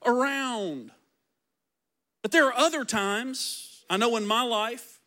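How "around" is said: voice of God. Acted.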